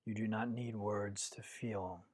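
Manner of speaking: calm, measured meditation guidance with long pauses; guided meditation. Acted. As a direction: guide listeners inward, one unhurried phrase at a time.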